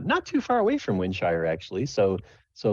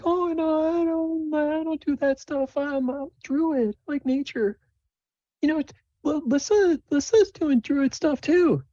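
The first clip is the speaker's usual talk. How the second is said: very high falsetto, eager denial; earnest Sable. Acted. Sable tells the father about druid stuff, earnest high voice. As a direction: reassure him in a squeaky high voice. Game master plays Sable.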